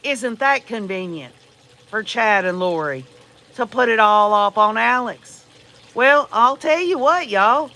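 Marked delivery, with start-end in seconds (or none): 0.0-5.4 mock skeptical. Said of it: "others that say".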